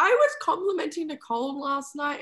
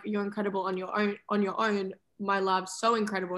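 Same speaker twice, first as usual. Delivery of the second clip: low, gently voiced endearment; tender praise; 4 semitones lower, 3 dB quieter than usual. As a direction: reassure a lover softly, in character. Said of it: "and then I'm like".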